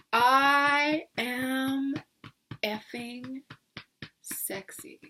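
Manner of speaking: slow, fading into a whisper; sultry whisper fade. Shown as a demonstration. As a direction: let it melt into a sultry whisper. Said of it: "I want you to say it like that".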